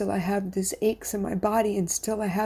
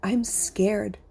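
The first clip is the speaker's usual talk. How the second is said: whispered confession. Real, not acted. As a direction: breathe it out like a secret. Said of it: "But here's my confession".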